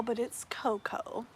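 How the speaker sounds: a slow, breathless whisper; whispered aside. Real, not acted. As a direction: whisper "cocoa" as ko-ko, softly and slowly. Aside correcting the word cocoa.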